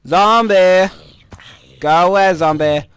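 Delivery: loud, high alarmed shout; shout at zombie. Real, not acted. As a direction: yell the zombie away. Zombie attacking in game.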